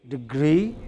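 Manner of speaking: Degree with the stress on -gree; stress on final syllable. Shown as a demonstration. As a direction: lean on the last syllable of Degree. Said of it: "final syllable".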